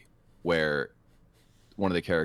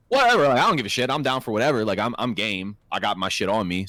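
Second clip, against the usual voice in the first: a mock-bold brag to Nick; hammed-up bravado; 3 semitones higher, 3 dB louder than usual. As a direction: play it like you're game for anything. Retold bravado quote.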